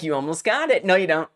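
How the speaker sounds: light mocking singsong; playful taunt, first go. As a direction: voice the game teasing the player. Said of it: "taunting me".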